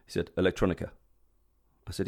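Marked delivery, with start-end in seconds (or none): 0.4-0.9 badly imitated Spanish accent. Airport security man questioning a passenger about his bag, bad Spanish accent. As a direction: put on a clumsy Spanish accent. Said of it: "That's my really bad Spanish accent".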